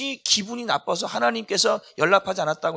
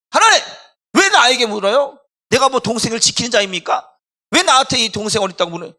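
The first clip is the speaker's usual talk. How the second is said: loud, high, indignant retort; defiant outburst; 6 semitones higher, 10 dB louder than usual. Acted. Preacher as Cain talking back to God, angry and defiant. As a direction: snap back loudly in hurt protest. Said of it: "막 이제 그게 이렇게 말하는 거예요. 막 감정이 사니까".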